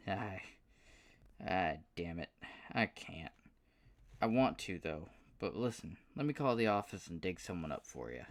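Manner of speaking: lightly voiced, regretful southern drawl. Paul regretfully declining Aston's offer, light southern drawl. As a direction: let him down easy with a drawl. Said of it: "with a surprisingly thick southern drawl".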